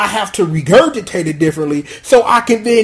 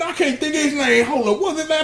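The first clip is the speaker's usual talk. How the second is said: laughing; 6 semitones higher, 6 dB quieter, faster than usual. Real, not acted. Forgets a name, laughing.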